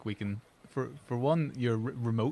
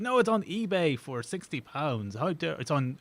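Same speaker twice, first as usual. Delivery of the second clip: mock outrage, pitched up; retold indignant complaint; 4 semitones higher than usual. Buyer disputing the camera's eBay price, indignant. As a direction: play an affronted haggling buyer. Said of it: "and then complained to me".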